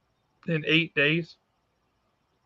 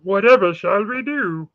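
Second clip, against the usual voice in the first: theatrical mock despair; mock dramatic; 5 semitones higher, 6 dB louder than usual. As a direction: ham up the helplessness. Host waiting on frozen call.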